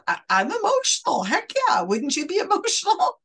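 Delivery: laughing incredulous protest at being called emotional. Real, not acted. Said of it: "I'm sorry, I'm laughing".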